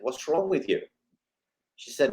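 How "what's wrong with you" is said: frustrated. Retold or imitated. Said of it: "Getting even more frustrated".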